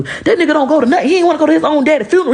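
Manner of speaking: high, fast words pushed out through laughter; cracking up while telling it; laughing. Real, not acted. Talking to her followers about her husband, laughing hard.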